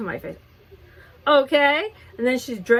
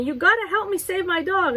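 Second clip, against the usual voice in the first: retold frantic plea; 10 semitones higher than usual. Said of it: "She's screaming at me".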